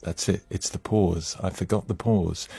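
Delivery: inner thought. Retold or imitated. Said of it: "and I thought".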